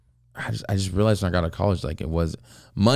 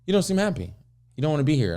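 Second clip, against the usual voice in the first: put-on higher-pitched quoted older man; retold knowing challenge; 8 semitones higher, faster than usual. Older client to young office assistant, knowing challenge.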